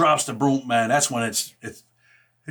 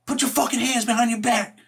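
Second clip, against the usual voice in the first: higher, barking mock imitation of a nasty female officer; nasty cop; 9 semitones higher than usual. Officer ordering him to cuff up, mocking nasty bark. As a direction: play the rude guard giving an order. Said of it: "real nasty".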